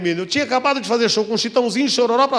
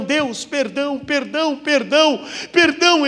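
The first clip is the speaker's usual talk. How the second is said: pleading for forgiveness; 5 semitones higher, slower than usual. Retold or imitated. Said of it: "eu comecei a pedir perdão".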